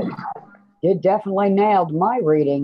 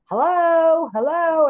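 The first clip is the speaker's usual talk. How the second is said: much higher squeaky chipmunk hello; mock the squeaky stream voice; chipmunk imitation; 9 semitones higher, slower than usual. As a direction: pitch it way up like a chipmunk. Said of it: "I sound like a chipmunk".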